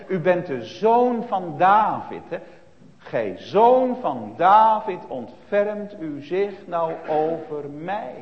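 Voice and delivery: slow, each word weighed, stress on zoon; slow stressed plea. Retold or imitated. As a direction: plead slowly, lean on zoon. Bartimaeus roept tot Jezus. (langzaam smekend, nadruk op zoon)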